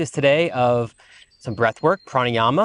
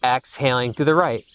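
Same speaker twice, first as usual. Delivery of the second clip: sparse, measured breath cues with long pauses; guided breathing cues. Acted. Teacher leading students through alternate nostril breathing, calm guided cueing. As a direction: count them through each breath with brief, spaced cues.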